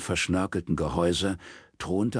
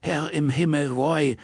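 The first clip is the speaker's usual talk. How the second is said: loud; 9 semitones higher, 4 dB louder than usual. Acted. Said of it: "sagte Kim laut".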